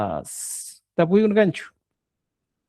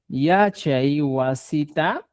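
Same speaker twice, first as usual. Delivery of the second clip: slow repeat; much slower than usual. Shown as a demonstration. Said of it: "Va a poner".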